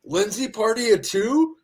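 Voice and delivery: high, polite host call; pretend restaurant host. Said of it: "pretends to be the host".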